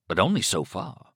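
killer's voice rising high in places; menacing killer. Acted. Killer warns his captive, menacing. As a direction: lean on the captive, pitch jumping up.

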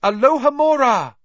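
high, loud, ringing incantation; casting a spell. A narrator's reading. Hermione unlocking the window by magic, loud cry.

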